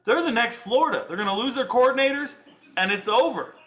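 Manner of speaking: high, emphatic reenacted call; retold prediction. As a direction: replay your old hot take with gusto. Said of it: "I said".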